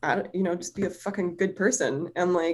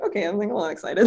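quick, laughing hint of excitement; retold mild excitement; much faster than usual. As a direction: rush it with a small giggle at the end. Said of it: "started to get, like, a little excited".

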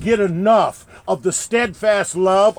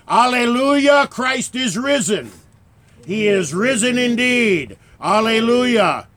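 joyful acclamation; 4 semitones higher than usual. Acted. Easter acclamation.

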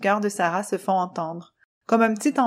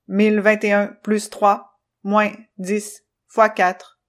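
slow, loud counting machine; slow robot calculation; 4 dB louder, slower than usual. Acted. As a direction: read out each number like a machine. Controllo calculates.

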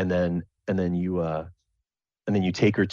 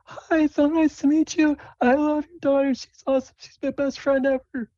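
put-on high timid girlish voice; Sable's voice; 4 dB louder than usual. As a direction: stammer it out like a nervous kid. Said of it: "Sable comes up and says".

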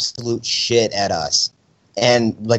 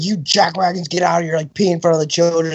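higher-pitched mild mock outrage; retold angry dad; 6 semitones higher than usual. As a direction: lightly imitate a dad telling kids off. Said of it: "yelling at us".

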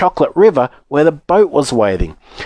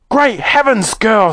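high-pitched motherly exclamation; alarmed screech; 8 semitones higher, slower than usual. Acted. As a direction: screech in horror without much volume. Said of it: "screeched Missus Beauregard".

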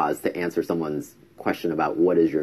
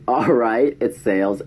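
composed; 4 semitones higher than usual. Retold or imitated. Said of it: "I kept it composed".

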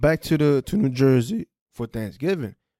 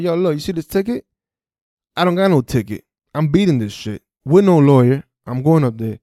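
defiant; 3 semitones higher, 6 dB louder than usual. Retold or imitated. Driver telling his friend he'll fight the ticket, defiant. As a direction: argue back, sure of beating it.

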